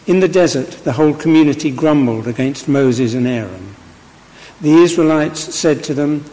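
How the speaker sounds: measured, projected church reading; scripture reading. Acted. Reader addressing a church congregation, formal scripture reading. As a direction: read the Bible passage out clearly to the congregation.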